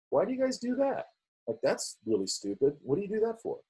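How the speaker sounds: mock disbelief at a silly office habit; baffled newcomer. Mocking office practices as newcomer.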